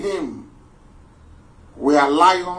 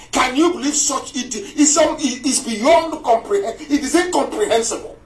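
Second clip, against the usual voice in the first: high-pitched, exasperated incredulity; outraged disbelief; 6 semitones higher than usual. Real, not acted. Speaker appalled at people begging for inclusion, outraged disbelief. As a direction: stumble upward in sheer disbelief.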